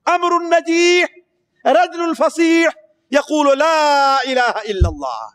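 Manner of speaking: slow, high, ringing proclamation; very loud call. Retold or imitated. Preacher voices the thunderous cry at the idol, slow and loud. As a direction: call it out at full strength, slowly. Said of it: "اتنے زور سے کہ اتنی زوردار آواز".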